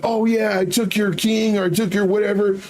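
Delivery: high, mock-gleeful boast; acted-out winner's gloat; happy gloating. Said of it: "show your opponent that you're happy".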